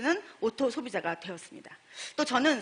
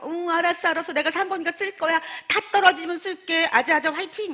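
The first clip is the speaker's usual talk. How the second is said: cheery brush-off; 5 semitones higher than usual. Retold or imitated. Older friend brushing off, cheering.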